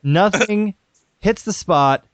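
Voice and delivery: slow, drawn-out ad pitchman voice; Bill Cosby impression. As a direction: stretch it like an old TV ad. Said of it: "your Bill Cosby impression".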